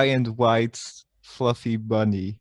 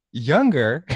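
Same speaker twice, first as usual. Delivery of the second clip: incredulous question; 4 dB louder than usual. Retold or imitated. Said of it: "he just goes".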